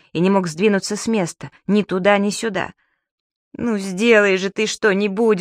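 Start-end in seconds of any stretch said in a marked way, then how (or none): 3.5-5.4 slow, begging plea; pleading. Acted. Mr Peppermint begs Субастик from the top, slowly pleading. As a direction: beg for help, drawn out. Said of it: "взмолился господин Пепперминт".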